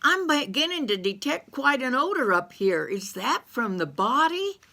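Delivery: a hint of a sassy country gal; lightly voiced Bessie May. Bessie May's voice.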